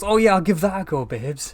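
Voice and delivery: carefree Doctor impression. Voicing the Doctor jumping onto a rope, high breezy mock voice. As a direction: toss it off like a reckless daredevil. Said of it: "who sees a ladder ... and goes".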